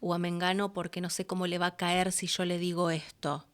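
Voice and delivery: a hint of anxious whispering; hesitant worry. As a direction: mimic someone too nervous to call. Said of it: "¿viste?".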